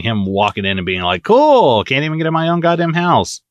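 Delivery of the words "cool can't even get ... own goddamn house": mock Walt complaint. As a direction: sneer it like an annoyed husband. Mocking Walt coming home.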